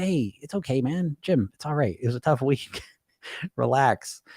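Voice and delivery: gentle, easygoing acted reassurance; positive voice. Inner voice to Jim after a tough week, reassuring. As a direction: soothe a pal, easing off toward the end. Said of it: "So what's a positive voice?".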